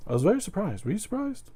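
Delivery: Eddie Izzard. Acted. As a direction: play a surprised British comic, high-pitched. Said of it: "my take on the British accent".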